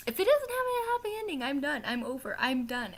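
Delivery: high, loud, theatrical despair over a book ending; mock exasperated outburst. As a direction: squeal it out like a fan on the edge. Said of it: "and I was just like".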